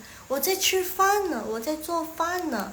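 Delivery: 呢 leaning on its e, n only passing; light final particle. Shown as a demonstration. Teacher demonstrating 呢 to students, weight on its e. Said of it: "penekannya lebih ke ne".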